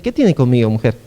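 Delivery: low-pitched, understated tenderness; gently reassuring. Acted. Jesus answers Mary at Cana, gently reassuring. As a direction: soften the question into reassurance. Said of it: "El abrazo tierno es".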